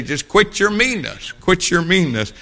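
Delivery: mild preacher imitation; old preacher's line. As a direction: echo the old preacher's plea. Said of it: "He'd say".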